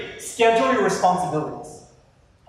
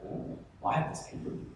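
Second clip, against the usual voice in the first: panicked mutter; 5 semitones lower, 8 dB quieter than usual. Retold or imitated. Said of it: "you're like".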